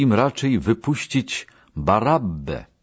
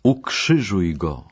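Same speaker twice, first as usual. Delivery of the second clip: ordinary delivery, nothing marked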